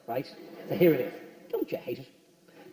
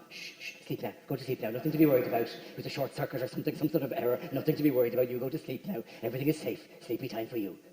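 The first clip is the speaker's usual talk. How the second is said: hushed, lower, soft soothing to a sleepy wife; 8 semitones lower, 7 dB quieter, faster than usual. Retold or imitated. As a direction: lull her back to sleep in a murmur.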